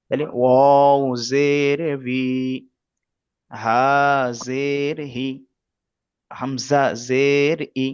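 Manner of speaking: slow, drawn-out syllable recitation; patient Quran-class recitation; slow letter drill. Shown as a demonstration. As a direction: spell each letter out for learners. Teacher drills letter sounds.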